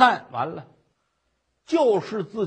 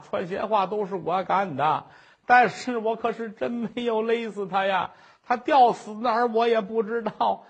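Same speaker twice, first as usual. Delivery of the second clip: pleading confession. Acted. Woman's long tearful confession.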